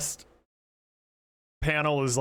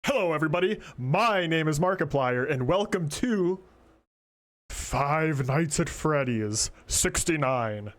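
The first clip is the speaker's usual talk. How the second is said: imitating Markiplier. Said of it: "what does he say?".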